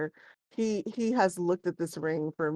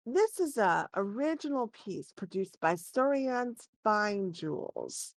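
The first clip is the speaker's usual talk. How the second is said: a slow, lightly raised appraiser voice; shopkeeper voice; 3 semitones higher, slower than usual. Acted. Appraiser presenting the famous jeweller to the party, slow and reverent. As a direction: announce the maker with reverence.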